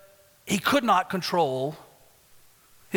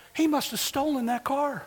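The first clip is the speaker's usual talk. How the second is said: higher, laughing through the line; amused higher voice delivering the joke's twist; laughing punchline; 8 semitones higher than usual. Retold or imitated. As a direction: let the laugh break into the punchline. Punchline of the retold joke.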